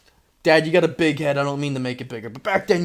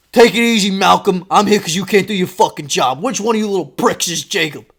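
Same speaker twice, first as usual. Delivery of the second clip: louder, higher, confrontational; aggressive dad; 3 semitones higher, 5 dB louder than usual. Retold or imitated. Dad to the teacher, loud confrontational demand. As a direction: push past the teacher, loudly.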